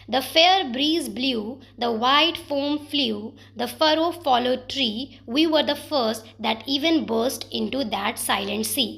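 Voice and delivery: slow, deliberate reading with pauses between phrases; poem recitation. Shown as a demonstration. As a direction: savour each alliterating word. Recites Coleridge lines.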